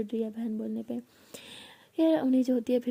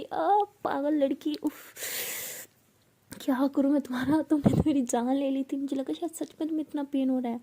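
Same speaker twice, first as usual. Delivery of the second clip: exasperated scolding; 3 semitones higher than usual. Acted. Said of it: "इतने ज़ोर से उसे कहती".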